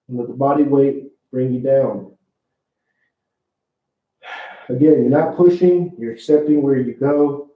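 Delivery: muffled, talking into the floor; face down on the floor. Real, not acted. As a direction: talk with the face toward the floor. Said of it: "I know I'm talking into the floor".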